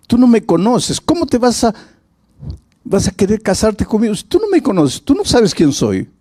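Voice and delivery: put-on young woman protesting. Woman protests to her suitor.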